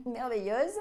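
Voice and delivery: "merveilleuse" repeated with a laugh, rising at the end; "merveilleuse" said through a chuckle. Real, not acted. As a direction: laugh at your own flourish as you say "merveilleuse" again.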